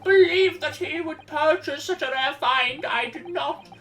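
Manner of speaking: put-on old man voice. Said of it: "that old man voice".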